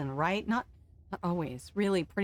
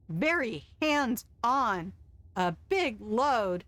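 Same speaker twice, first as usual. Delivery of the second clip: slow suggestive innuendo; 2 semitones higher, much slower than usual. Acted. Chef's innuendo, drawn out.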